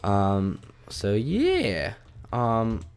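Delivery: normal talking voice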